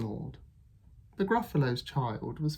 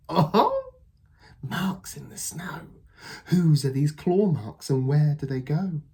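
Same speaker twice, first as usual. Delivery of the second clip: high, loud thrilled discovery; excited Gruffalo child; 4 semitones higher, 5 dB louder than usual. Acted. Child finding claw marks, high and excited. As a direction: gasp at the marks.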